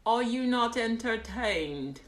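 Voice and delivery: theatrical challenge. Acted. Streamer to the audience, theatrical challenge. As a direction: draw it out like an arena speech. Repeats film quote, bigger take.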